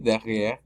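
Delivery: "derrière" stopping at the final R; silent final E. Shown as a demonstration. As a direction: leave the last E off "derrière". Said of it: "es muda". (derrière sin la E final)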